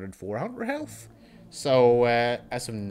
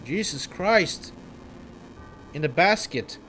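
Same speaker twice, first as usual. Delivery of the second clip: much higher and louder, frantic cries; panicked villager; 8 semitones higher, 5 dB louder than usual. Acted. Villagers in the burning town screaming for help. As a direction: scream for help amid the fire.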